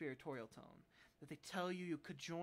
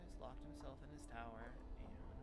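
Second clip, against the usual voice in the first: whispering; 2 semitones lower, 5 dB quieter than usual. Acted. Reading game text in whisper.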